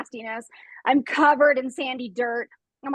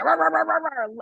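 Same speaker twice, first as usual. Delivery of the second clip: dog roar; 3 semitones higher, faster than usual. Retold or imitated. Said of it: "she's rough".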